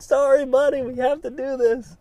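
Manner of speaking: put-on choked-up high apology to a child; pained apology. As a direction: say sorry to your son while it breaks you. Dad apologising to crying son.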